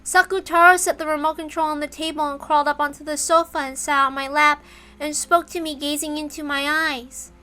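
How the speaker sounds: put-on as the girl Maria, narrating herself; Maria's voice. Shown as a demonstration. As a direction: retake in the child's voice. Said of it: "Sorry, let's try again".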